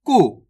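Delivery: "कु" with a brief, unstretched vowel; short vowel. Shown as a demonstration. Teacher answering how to read it, short low "कु". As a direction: say "कु" short, without dragging it. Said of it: "ज्यादा खींच के नहीं पढ़ेंगे".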